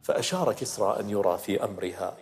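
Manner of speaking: dramatic narrative verse recitation; إلقاء شعري. Acted. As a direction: declaim the poem like a storyteller building the scene. (إلقاء شعري قصصي)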